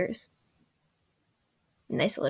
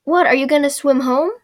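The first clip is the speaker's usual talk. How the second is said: higher, louder challenging question; mock retort as Katara; 4 semitones higher, 5 dB louder than usual. Katara answering stubborn Sokka, mock challenge. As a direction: throw it back as a jeering question. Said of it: "what Katara should have said".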